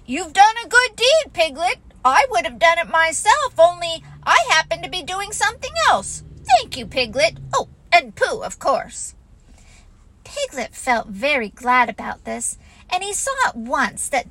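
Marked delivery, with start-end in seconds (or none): 0.1-9.1 imitating Christopher Robin. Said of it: "He'd say".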